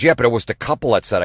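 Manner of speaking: put-on female voice, hurried; mimicked date. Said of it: "She goes".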